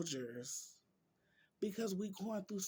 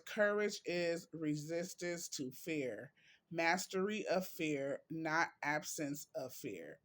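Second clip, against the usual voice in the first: quote reading. Acted. Vlogger reads viewers a quote on courage, deliberate reading. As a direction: read it out with measured weight.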